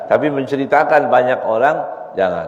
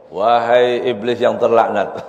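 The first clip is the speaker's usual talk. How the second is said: laughing greeting; slower than usual. Acted. Pharaoh greets the devil mockingly.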